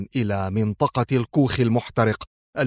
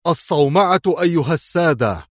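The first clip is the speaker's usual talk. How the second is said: higher-pitched excited call; 6 semitones higher, 4 dB louder than usual. A narrator's reading. Worker calling the others to the uncovered silo, exclaiming. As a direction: announce the find to everyone. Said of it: "فهتف أحدهم".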